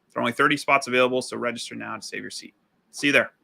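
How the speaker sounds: polished, punchy pitch with stressed key words; rehearsed direct-to-camera ad delivery; sales ad read. Acted. Consultant pitches a sales workshop to coaches, polished ad read. Reads own sales ad script.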